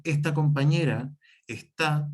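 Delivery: slow demonstration, "está" stressed on the last A; stress on final A. Shown as a demonstration. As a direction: say it slowly, ending on es-TÁ. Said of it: "la otra va con acento en la A". ("está" lento, con acento en la A final)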